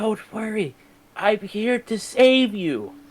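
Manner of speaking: hushed, secretive whispering. Playing a character leaning in to reassure a captive lady: whispering secretly. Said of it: "lean in and whisper secretly to this lady".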